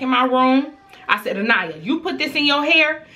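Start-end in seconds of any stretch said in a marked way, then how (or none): 1.4-3.1 raised-pitch stern questioning; scolding mom demanding an answer; mama checking her kid. Retold or imitated. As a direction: confront the child, pressing harder on the repeat. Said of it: "Y'all know how mamas are when we gotta check our kids".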